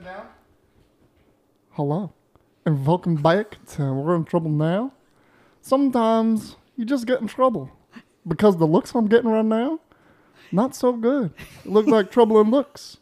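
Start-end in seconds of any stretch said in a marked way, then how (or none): 1.7-13.0 sexy voice. Acted. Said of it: "listen to this sexy voice".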